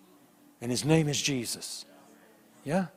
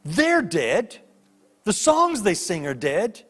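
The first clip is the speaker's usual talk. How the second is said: higher, exasperated inner plea; weary complaint to God; 5 semitones higher than usual. Retold or imitated. Old pastor praying in a dead church, exasperated. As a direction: grumble to the Lord, dragging at the end. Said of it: "he says in his heart".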